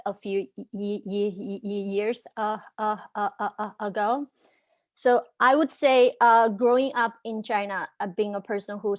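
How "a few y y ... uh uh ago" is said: repeats y- and uh before the word; stuck on the first sound; stuttering. Real, not acted. Speaker who stutters stuck on word.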